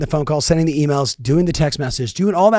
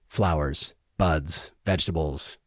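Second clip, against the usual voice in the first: quiet lowered list; lower, softer listing; 6 semitones lower, 5 dB quieter, slower than usual. Real, not acted. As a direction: drop the voice, list gently.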